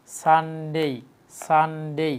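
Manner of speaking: সানডে drawn out as "saan-dey"; correct Sunday. Shown as a demonstration. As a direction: hold the N in সানডে, then a long "dey". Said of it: "সানডে না বলে আমরা বলবো". (সানডে শুদ্ধ উচ্চারণে, "সানডেই")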